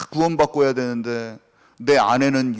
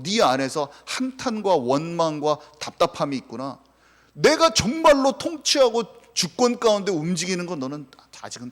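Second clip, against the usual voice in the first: a lightly raised, higher voice of God rebuking Job; 3 semitones higher than usual. Retold or imitated. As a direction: speak as God, patient but firm. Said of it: "이렇게 하나님 얘기하시는 거야".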